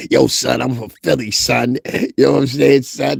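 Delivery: put-on Philly street accent; mock Philly accent. Mimicking her switch the next minute, mock Philly accent. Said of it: "Yo, stick with that accent".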